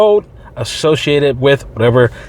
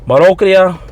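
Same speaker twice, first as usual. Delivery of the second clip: put-on marocria said with a playful Hispanic accent, a bit higher; mock Hispanic accent; 5 semitones higher, 3 dB louder than usual. Reading the medical term to veterans in a mock Hispanic accent. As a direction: sound out "marocria" the Spanish way, half joking. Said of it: "like, a, a Hispanic accent".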